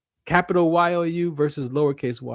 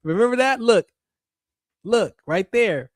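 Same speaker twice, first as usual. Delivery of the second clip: pitched-up accuser pleading his case to God; Satan accusing; 5 semitones higher than usual. Acted. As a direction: tattle on him to God, higher and pushy. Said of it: "Satan and his devices are gonna go to God".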